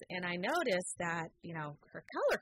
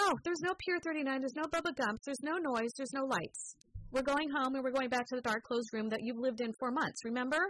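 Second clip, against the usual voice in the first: higher, hammed-up frantic refusal; frantic mom; 5 semitones higher than usual. Mother mocking her own panic at her daughter's request. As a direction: list every no like a panicking mother.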